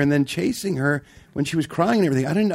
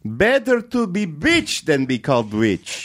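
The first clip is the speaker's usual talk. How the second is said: slow, drawn-out mock Kiwi accent; New Zealand accent; 3 semitones higher, slower than usual. Cohost trying a Kiwi accent on the podcast. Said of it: "That's a good accent".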